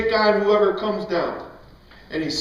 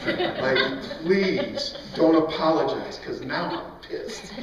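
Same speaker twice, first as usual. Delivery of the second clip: laughing taunt; 6 semitones lower, 4 dB quieter, slower than usual. Retold or imitated. Retold taunt to bullies.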